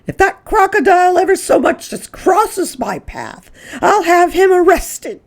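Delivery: high, loud indignant threat; calling back angrily. Acted. Mrs Hipple threatens Mrs Prim while leaving, loud and indignant. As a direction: threaten over your shoulder while fleeing. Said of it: "she called back over her shoulder".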